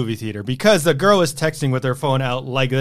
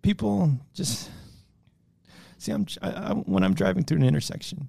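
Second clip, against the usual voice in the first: mock tearful whimper, softer; crying voice; 6 dB quieter than usual. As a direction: fake crying through a rant. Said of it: "You have an adorable crying voice".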